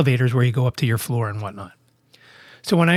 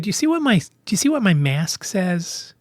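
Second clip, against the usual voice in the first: getting angry; 5 semitones higher than usual. Retold or imitated. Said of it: "And I started to get angry".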